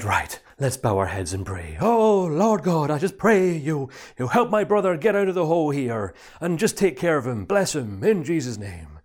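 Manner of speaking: mock pulpit prayer; preacher praying. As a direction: lead a hammed-up prayer. Minister prays over the man.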